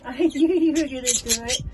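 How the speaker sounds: high, loud delighted cheering; excited cheer. Real, not acted. Owner cheering chick Pebbles after first flight, loud and high. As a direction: burst out celebrating.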